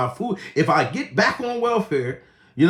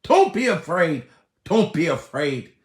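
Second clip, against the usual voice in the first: normal talking voice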